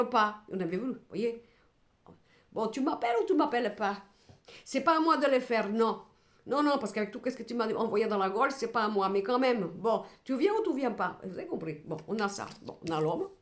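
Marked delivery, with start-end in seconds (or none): 2.5-11.2 mock annoyed lover, slightly raised; acted fed-up ultimatum. Wronged lover demanding a call, acted impatience. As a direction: press it impatiently, playing the wronged partner.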